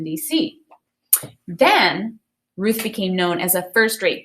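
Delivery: put-on clear, expressive reading of a children's book to the class; storybook read-aloud. Teacher reading a Ruth Bader Ginsburg picture book to students, expressive read-aloud. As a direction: read it like story time for kids.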